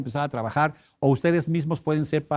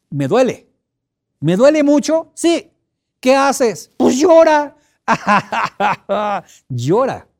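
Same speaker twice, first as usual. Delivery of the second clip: high, loud hammed-up crying whine; mock sobbing over a crushed finger; mock pained wail; 8 semitones higher, 8 dB louder, slower than usual. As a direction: wail the pain like a child, over the top. Acting out finger pain, crying.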